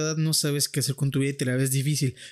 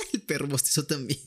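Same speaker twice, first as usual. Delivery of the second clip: laughing. Real, not acted. Laughs at dog yawning.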